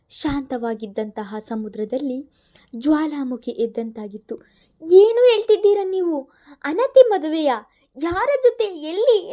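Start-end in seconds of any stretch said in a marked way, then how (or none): 4.8-9.3 high, loud rapid questions; in one breath. A narrator's reading. Mother panicking over daughter, questions in one breath. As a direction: fire them all without a breath. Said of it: "ಒಂದೇ ಉಸಿರಿಗೆ ಪ್ರಶ್ನೆ ಕೇಳಿದರು".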